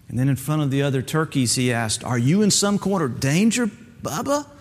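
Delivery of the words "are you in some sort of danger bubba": mocking, rising high on the name; sarcastic question. Mentor mocks Bubba before the other turkeys, sarcastic. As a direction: tease him in front of everyone. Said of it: "he asked sarcastically".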